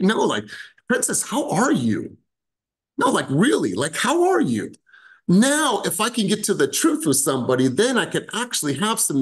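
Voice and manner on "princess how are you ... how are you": sincere. Shown as a demonstration. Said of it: "focused on the tonality".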